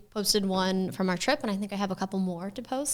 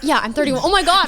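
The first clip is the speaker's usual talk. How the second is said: laughing; 7 semitones higher, 10 dB louder than usual. Real, not acted. Laughing at her own age.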